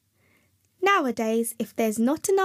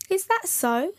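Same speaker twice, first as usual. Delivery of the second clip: put-on merry old man; 8 semitones higher than usual. A narrator's reading. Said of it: "said the merry old man".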